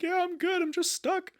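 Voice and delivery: very high-pitched reassuring call; calling back. Retold or imitated. Trapped driver answering bystanders after a crash, high calling voice.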